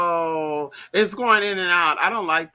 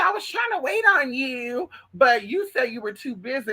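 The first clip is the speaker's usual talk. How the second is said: high-pitched mimicry of someone's excuse; mimicked excuse; 4 semitones higher than usual. Vlogger retells someone's excuse about waiting, high mimicking voice. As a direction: pitch it up to imitate the other person.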